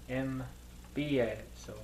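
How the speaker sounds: Empiezo drawn out slowly, the ie split clearly sounded; slow careful empiezo. Shown as a demonstration. Student correcting himself, slow careful Empiezo.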